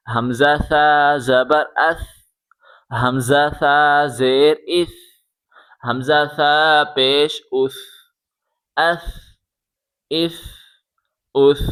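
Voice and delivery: اس said softly, tongue tip out between the teeth, a soft lisped s; soft tha with tongue out. Shown as a demonstration. Teacher showing children the soft ث, tongue out between the teeth. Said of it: "زبان باہر نکال کے پڑھیں".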